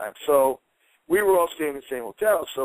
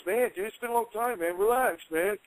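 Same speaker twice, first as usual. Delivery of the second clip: mock laid-back plea, quieter and higher; Knobbs calming him, soft and higher; 4 semitones higher, 4 dB quieter than usual. Knobbs telling the angry speaker to relax, higher and softer. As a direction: soothe him like an old buddy. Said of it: "And he goes".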